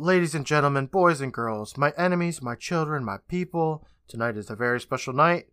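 lightly voiced ringmaster address; mild mock announcer calling to the crowd; Mister Top Hat. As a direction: roll out the list like a showman. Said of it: "Mister Top Hat calls out".

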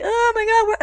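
high, bright shocked gasp of a question; startled surprise. Retold or imitated. Actress on the phone, stunned it's Hugh on the line, high shocked surprise. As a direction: jolt up in pitch, caught off guard.

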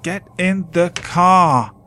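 loud, high urgent yell. Acted. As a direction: yell it repeatedly. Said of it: "I could hear Matt yelling".

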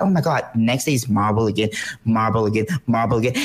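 low, monotonous mock complaint; mock boredom. Viewer tired of seeing marbles daily, low bored grumble. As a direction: repeat it like a worn-out, bored viewer.

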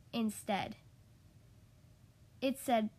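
measured storytime delivery with animated dialogue; children's story reading. A narrator's reading. Podcast host reads a requested picture book to kids, storytime reading. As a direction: read a picture book to little listeners, expressively.

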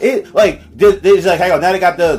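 ranting. Real, not acted. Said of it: "You're not ranting anymore".

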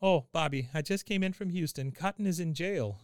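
a hint of a grandmother bringing news; Grandma Dee Dee. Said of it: "She goes".

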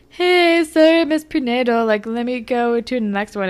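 high, loud, chirpy greeting; breezy hello that fades to plain; lightly voiced Casey. Casey greeting Jenna, lightly high. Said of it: "Casey comes up and is like".

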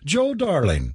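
delighted greeting, pitched high; excited cry. A narrator's reading. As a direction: greet a dear friend eagerly. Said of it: "cried Kathleen".

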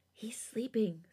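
unvoiced child's whisper. A narrator's reading. Little girl warning about sleeping baby, whispering. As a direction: hush it like a kid guarding a baby. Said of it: "Sujin whispers".

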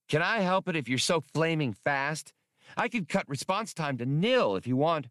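a tiny module talking back; cheeky little computer. Acted. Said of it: "the little module objected".

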